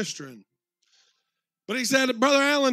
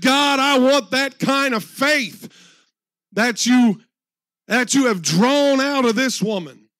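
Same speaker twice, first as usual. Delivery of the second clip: fervent prayer; 6 dB louder, slower than usual. Retold or imitated. Retold prayer after crying backstage.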